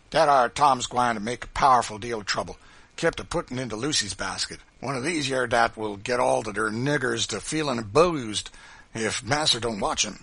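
loud Southern dialect character voice; emphatic, aggrieved informer; Sambo's complaint. A narrator's reading. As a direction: tattle forcefully to the boss.

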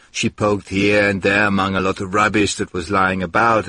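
ordinary delivery, nothing marked

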